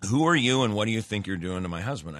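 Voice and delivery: mock yell that races into the accusation; retold scream. Hysterical wife confronting the helper, mock screaming. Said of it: "she starts screaming at me".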